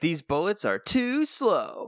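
drawn-out TOO SLOW; slow punchline delivery. Retold or imitated. Co-host retelling the Ranger's quip, slow punchline delivery. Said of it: "there is no play on words present".

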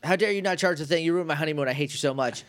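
imitated scolding, lightly heated; mad yelling, retold. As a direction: play-act an angry telling-off. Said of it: "I think she's yelling at Rito".

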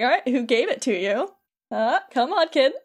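lightly imitated prodding; goading. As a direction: coax and needle him for an answer. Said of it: "like, goading him on".

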